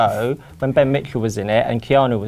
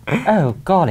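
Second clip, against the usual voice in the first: lightly put-on posh accent, higher pitch; non-Cockney accent; 5 semitones higher, slower than usual. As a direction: lose the Cockney for a mock-genteel accent. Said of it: "start talking in a different accent".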